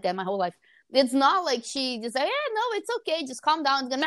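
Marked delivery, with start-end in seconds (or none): 2.2-3.8 imitated comforting. Mom comforting upset daughter, imitated high soothing voice. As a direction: mimic a reassuring parent. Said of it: "calm down and start comforting me".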